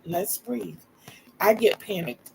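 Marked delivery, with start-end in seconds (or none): 0.1-0.8 soft, reassuring coaxing; calming voice. Acted. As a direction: gently talk someone down from panic. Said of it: "I'm that calming voice that says".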